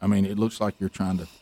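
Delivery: imitating his wife hissing at him to stay back; hushed warning. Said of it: "she's like".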